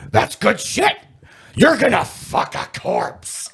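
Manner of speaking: high, drawn-out boss impersonation; Vince McMahon. Retold or imitated. Boss pitching an outrageous storyline, drawn-out mock relish. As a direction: stretch it out like a gleeful mock boss. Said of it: "and Vince McMahon".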